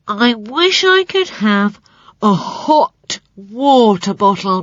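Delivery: slow, pleading creature voice; wistful spider voice. A narrator's reading. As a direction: ask longingly like a sick spider. Spider asks for a bottle.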